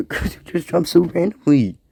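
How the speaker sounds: laughing through the words; giggling at the cats; amused giggle. Real, not acted.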